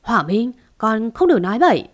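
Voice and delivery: a quick sharp rebuke, fast; snapping. Acted. Mother snapping at her son to stop talking, quick mild rebuke. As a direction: scold him to silence. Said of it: "quát lên".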